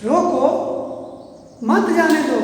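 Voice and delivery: रोको stressed, held apart from मत जाने दो; stress on roko. Shown as a demonstration. Teacher stressing रोको to show meaning. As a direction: lean on रोको, then मत जाने दो. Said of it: "इसका अर्थ दूसरा हो गया".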